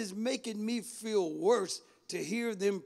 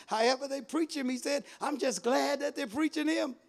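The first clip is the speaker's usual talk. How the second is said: joyful rejoicing; 5 semitones higher than usual. Acted. Paul quoted with preaching fervor.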